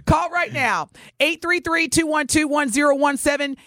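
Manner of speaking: upbeat radio host promo read; radio contest promo. Acted. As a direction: sell it like a DJ.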